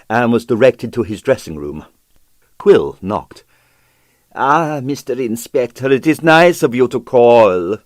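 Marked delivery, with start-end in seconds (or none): 4.3-7.8 gushing welcome. Acted. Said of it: "gushed a welcome".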